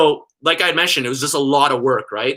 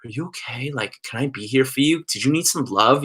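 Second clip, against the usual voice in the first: gentle, caring mother's check-in; motherly concern. Retold or imitated. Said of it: "the most perfectly motherly way".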